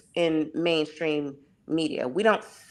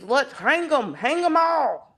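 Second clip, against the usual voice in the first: Southern redneck voice rising higher into a hollering "hang 'em all"; 7 semitones higher than usual. Acted. Mocking a Southern redneck for the panel, rising Southern holler. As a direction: whip up a lynch mob in a Southern redneck twang. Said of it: "that's my Southern redneck voice".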